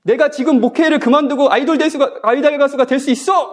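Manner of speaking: mock boast. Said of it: "막 이렇게 얘기했더니".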